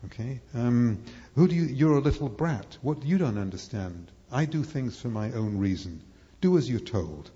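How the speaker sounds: mock angry father scolding a child. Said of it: "And the angry father saying".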